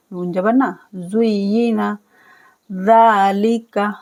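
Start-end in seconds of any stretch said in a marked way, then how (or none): 0.9-2.0 जुय्यिना with a doubled, stressed या; slow recitation. Shown as a demonstration. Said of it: "या को दो बार पढ़ना है". 2.7-3.9 ज़ालिका with ज़ा drawn out; slow recitation; long za. Shown as a demonstration. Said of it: "जाल को खींचना है".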